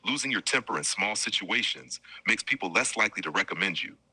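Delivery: calm assistant voice reading an answer; measured robotic life-coach read. Acted. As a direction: read it like a smooth chatbot narrator. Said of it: "strong black man siya".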